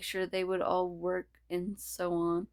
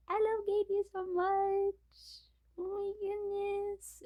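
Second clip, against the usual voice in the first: put-on much higher squeaky Scottish-accented gush; slower than usual. Character gushes over Katie in a squeaky Scottish accent. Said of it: "Why did I turn Scottish?".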